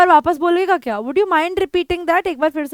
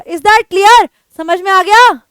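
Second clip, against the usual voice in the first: a louder, rude warning; rude, angry; 6 dB louder, slower than usual. Shown as a demonstration. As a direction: snap it as a stern warning. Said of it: "थोड़ा rude होकर, गुस्से में आकर बोलते हो".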